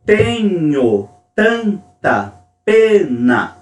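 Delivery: very slow, "Tenho" and "tanta" struck hard on the first syllable; rhythmic recitation. Shown as a demonstration. Teacher reading a Pessoa verse to class, falling rhythm marked. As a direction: scan the line, strong then weak. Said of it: "como neste verso de Fernando Pessoa".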